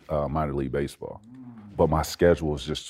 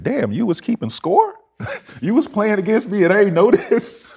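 much higher, laughing through the retold line; laughing disbelief; 6 dB louder than usual. Retold comeback to Kobe, high laughing disbelief. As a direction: crack up at the absurd claim.

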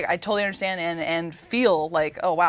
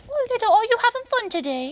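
high, louder cooing baby talk in a mock Irish accent; 5 dB louder than usual. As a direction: coo at a toddler in a put-on Irish accent. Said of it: "Why the Irish accent?".

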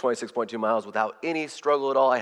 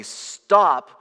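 mild mock yell; 4 semitones higher, 4 dB louder than usual. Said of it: "my stomach yelled at me".

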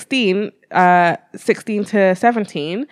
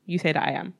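quiet; 4 semitones lower, 10 dB quieter, faster than usual. Shown as a demonstration. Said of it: "he said".

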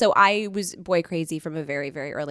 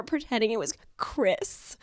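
whispering; 6 dB quieter than usual. Real, not acted. Embarrassed confession.

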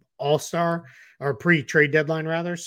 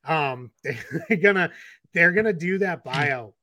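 laughing; 4 semitones higher, slower than usual. Real, not acted. Laughing at his own accent.

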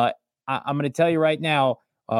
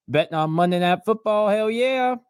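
hype; 7 semitones higher than usual. Acted. Hype shout of bets.

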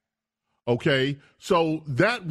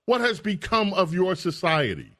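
higher-pitched, reproachful question; mock indignation; 5 semitones higher than usual. Host voicing Russians laughing at America, mock indignant. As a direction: mimic appalled onlookers lamenting a fallen society. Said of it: "They're saying".

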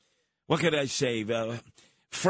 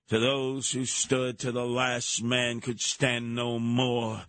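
Santa Anna; 4 semitones lower than usual. Acted. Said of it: "I, Santa Anna".

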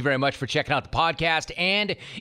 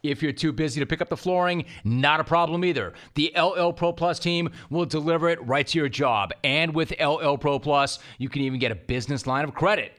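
ad read. Acted. Sponsor ad read.

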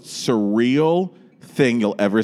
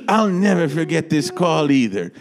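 much higher, slow theatrical diva; grand gushing star voice; high dramatic diva address; impression of a famous singer; 9 semitones higher than usual. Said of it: "she's like".

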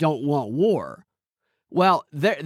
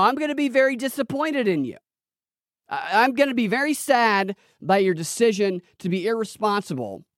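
mock Biden; 5 semitones higher than usual. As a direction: lightly imitate a grandpa president lecturing Hamas. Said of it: "he said".

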